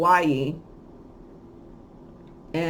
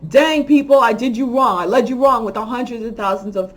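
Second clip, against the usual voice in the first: mock apology; 2 semitones higher, 4 dB louder than usual. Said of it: "come out and say".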